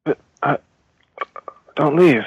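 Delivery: calling out. Acted. Prisoner calls after Henri.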